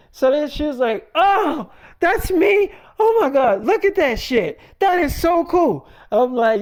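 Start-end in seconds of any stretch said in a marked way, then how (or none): 1.1-5.9 much higher and louder, squealing; thrilled wife. Retold or imitated. Wife seeing herself pregnant in the game, squealing high. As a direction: shriek with delight at your own image.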